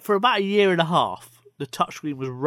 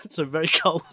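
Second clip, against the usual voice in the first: mouth full. Real, not acted. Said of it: "Don't you got a mouthful of coffee".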